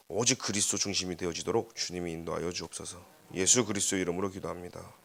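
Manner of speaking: low, soft praying voice. Real, not acted. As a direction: close the prayer quietly and evenly. Closes a prayer. (낮고 조용한 기도 어조)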